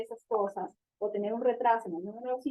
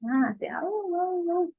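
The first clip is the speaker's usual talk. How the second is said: mother imitating babble; 7 semitones higher, slower than usual. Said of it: "¿y cómo hace?".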